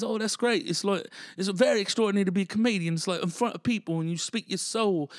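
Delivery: high-pitched impressed Brit imitation; British accent. British brother praising stand-up comedy, British accent. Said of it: "British brother".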